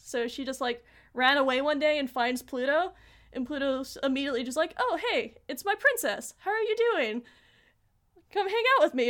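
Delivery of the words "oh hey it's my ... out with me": higher, cheery imitation of a welcome; acted-out happy hello, lifted in pitch; friendly greeting. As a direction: greet a little princess with delight. Pluto greets her princess, retold.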